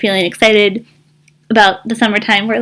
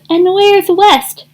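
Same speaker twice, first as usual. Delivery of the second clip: honked question; 10 semitones higher, slower than usual. Acted. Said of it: "honked Goose".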